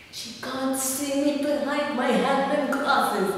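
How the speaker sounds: high, drawn-out put-on voice; slow, high-pitched teasing imitation; mock sneaky voice. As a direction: mimic a silly man convinced he's invisible. Mimics man absurdly hiding behind glasses.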